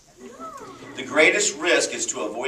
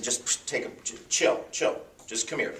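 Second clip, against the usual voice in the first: hushed aside; 5 dB quieter than usual. Retold or imitated. Peter whispers to businessman.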